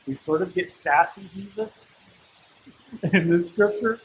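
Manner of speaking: a real small chuckle breaking in; amused, chuckling as you talk; laughing. Real, not acted. Preacher amused by the disciples' exchange with Jesus, laughing. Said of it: "I'm laughing because".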